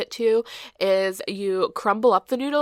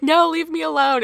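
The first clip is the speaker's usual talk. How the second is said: a hammed-up no, higher and louder; mock annoyed refusal; 9 semitones higher, 6 dB louder than usual. Daughter refusing her dad's food, mock irritated. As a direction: brush him off, playfully annoyed. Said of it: "a hundred times I was like".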